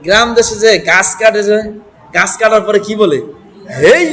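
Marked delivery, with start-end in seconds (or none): 3.8-4.0 woodcutter's heave. Retold or imitated. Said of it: "এরকম একটা ধাক্কা দেয় না?".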